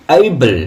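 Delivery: able as drawn-out "EY-bul"; correct pronunciation. Shown as a demonstration. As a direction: glide e to i in able. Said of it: "কি উচ্চারণ". (able-এর সঠিক উচ্চারণ, এই-বল)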